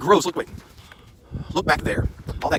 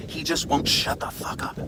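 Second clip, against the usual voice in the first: whispered aside; 6 dB quieter than usual. Real, not acted. Aside mocking his hiking partner.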